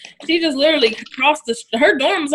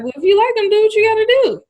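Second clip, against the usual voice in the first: retold encouragement; 11 semitones higher, 4 dB louder than usual. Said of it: "And I was like".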